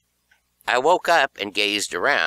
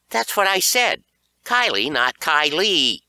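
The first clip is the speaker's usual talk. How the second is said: nervous; 9 semitones higher, 5 dB louder than usual. A narrator's reading. Nervous correction to angry bully.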